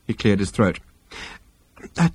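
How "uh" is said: slow, hesitant, raised pitch; nervous. A narrator's reading. Arthur guiltily broaching a question, nervous and halting. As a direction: start hesitantly, as if afraid to ask. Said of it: "said it so nervously".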